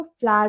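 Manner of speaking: फ्लावर as "flaar", American or British style; American or British variant. Shown as a demonstration. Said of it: "American या British accent में". (American-British ढंग से फ्लावर को "फ्लार")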